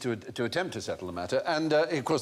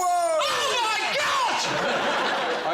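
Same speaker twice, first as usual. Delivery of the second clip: high delighted gasp of wonder; amazed; 4 dB louder, much slower than usual. Real, not acted. Host gasps at the magician's trick, loud and high.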